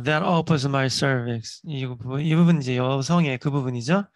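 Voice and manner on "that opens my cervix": very slow, every word clear; slow model reading. Shown as a demonstration. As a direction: read it word by word for learners. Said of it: "teacher repeating clip line slowly".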